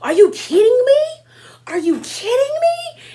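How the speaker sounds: high, loud outraged yell; hammed-up shrieking disbelief; mock furious shout. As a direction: scream it while flipping the tray. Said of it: "she was like".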